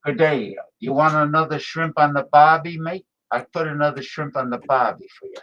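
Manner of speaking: lightly put-on Aussie catchphrase; mock Australian shrimp-on-the-barbie voice; Australian accent. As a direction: imitate an Australian commercial. Mimics Australian beer commercial catchphrase.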